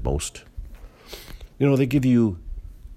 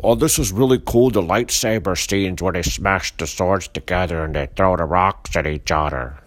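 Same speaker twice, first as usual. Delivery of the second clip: mock fan gushing; 4 dB louder than usual. Mocking fans' praise of the film.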